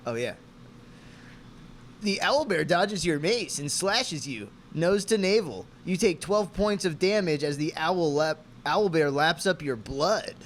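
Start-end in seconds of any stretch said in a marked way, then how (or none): 2.0-10.3 slow, dramatic game master reading; dungeon master narration. Acted. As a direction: narrate the monster's attack with drawn-out relish. Reads game master's lines from script.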